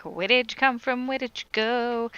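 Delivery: lightly acted grilling; acted questioning. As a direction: put on a nosy interrogator's questioning. Acting out cruel greeting.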